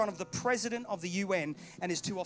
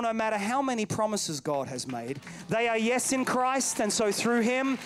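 ringing scripture declaration, building in volume; full-force preaching. Real, not acted.

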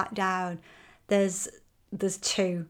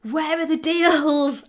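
a hint of a whiny, higher, slow complaint; mock complaint; 7 semitones higher, 4 dB louder, slower than usual. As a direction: drag out deals like a fed-up client. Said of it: "a lot of women say to me".

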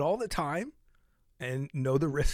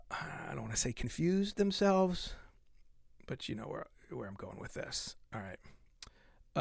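hushed; 5 dB quieter, slower than usual. Real, not acted. Trailing confiding aside.

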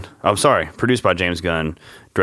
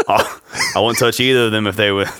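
put-on Aussie voice breaking into laughter; Australian quote, about to crack up; Australian accent; 3 semitones higher than usual. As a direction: try the Australian line without laughing. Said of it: "get in the Australian voice".

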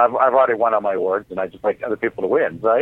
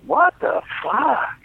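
imitating Ron Jeremy; 13 semitones higher, much slower than usual. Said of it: "Ron Jeremy starts reading this poem and goes".

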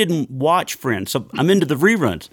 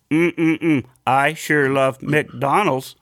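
computer voice; much slower than usual. Pretend. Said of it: "a computer voice".

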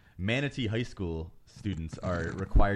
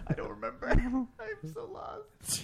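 high giggly laughing words; 13 semitones higher, 5 dB quieter than usual. Real, not acted. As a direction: talk through the giggles. Laughing fit after the bit.

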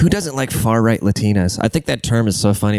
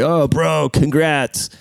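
higher, mock-impressed buddy voice; mock congratulations; 6 semitones higher, much slower than usual. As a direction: imitate a pal congratulating you. Mimicking friends congratulating him.

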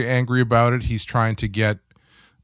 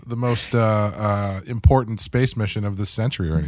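sarcastic; faster than usual. Retold or imitated. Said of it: "completely facetiously".

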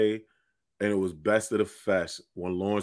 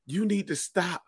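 lightly voiced sister, pitched higher; sister's interjection; 8 semitones higher, 3 dB quieter, slower than usual. Sister butting in on the show, high imitated scolding. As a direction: cut in as the heckling sister, higher. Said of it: "my sister was like".

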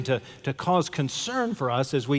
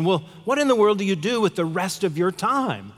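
mildly acted bafflement, a little higher; flabbergasted tourist; 4 semitones higher than usual. Tourist questioning the fisherman about his time, mildly flabbergasted. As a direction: wonder aloud with a touch of disbelief. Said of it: "the tourist was just flabbergasted by this".

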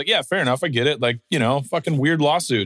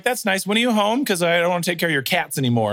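indifferent mom; 4 semitones higher than usual. Retold or imitated. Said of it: "And she's like".

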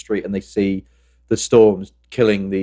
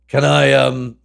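higher, hesitant pleading ask; hopeful drunk fan; 4 semitones higher, 3 dB louder, slower than usual. Retold or imitated. Drunk fan at the firehouse door, asking hopefully. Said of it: "I'm like".

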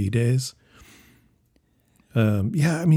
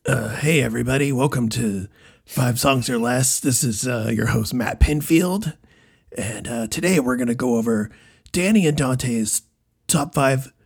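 Matt Pinfield. Acted. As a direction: do a raspy music-show host, drawing out the names. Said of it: "see if I can do a Matt Pinfield".

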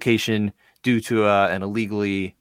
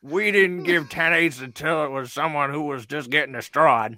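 Dana White; 3 semitones higher than usual. Acted. Podcast host mocking the ten eight standard, Dana White impression. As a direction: put on an old-timer's Boston-area voice. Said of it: "that's a really good Dana White impression".

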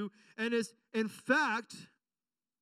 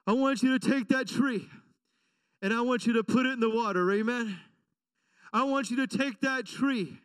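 louder, firm command; God commanding; 2 semitones higher, 3 dB louder than usual. Retold or imitated. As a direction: give the order with weight. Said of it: "He says".

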